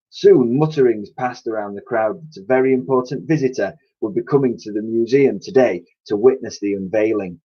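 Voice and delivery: lively read-aloud storytelling voice; story narration. A narrator's reading. Teacher reads novel aloud.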